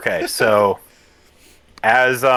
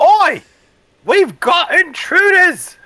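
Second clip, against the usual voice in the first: tiny high squeaky shout, slowed; squeaky pixie voice; 8 dB louder, slower than usual. Acted. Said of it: "you hear a squeaky voice on the horizon".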